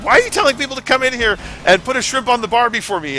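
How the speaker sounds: high, loud put-on Aussie accent; hammed-up Australian twang; mock Australian. Friend mocking the fake Australian rumor, in a high put-on Aussie accent. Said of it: "he's like".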